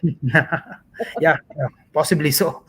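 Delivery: laughing through a yes, yes, possibly so; amused, laughing agreement. Real, not acted. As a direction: chuckle your way through the agreement. Laughing at the host's quip.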